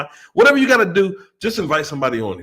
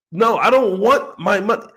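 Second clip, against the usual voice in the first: mock pleading; 3 semitones higher, 5 dB louder than usual. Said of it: "pleading investor again".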